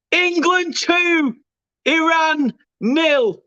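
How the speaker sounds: high, slow, savoured; elated scoreline. Real, not acted. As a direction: sing out the score. Scoreline after goal, high and slow.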